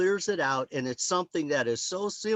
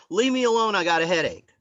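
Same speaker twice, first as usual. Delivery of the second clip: higher, louder, savouring each word; gleeful mock brush-off; relishing the line; 4 semitones higher, 5 dB louder, faster than usual. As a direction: repeat it like a prize. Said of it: "that's a great line".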